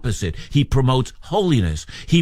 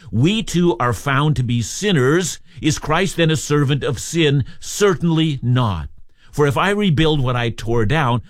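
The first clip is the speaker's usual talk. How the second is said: scripture reading. Shown as a demonstration. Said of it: "I'm reading our text today".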